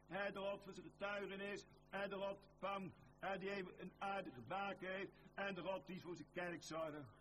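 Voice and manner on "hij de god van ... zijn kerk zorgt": usual speaking voice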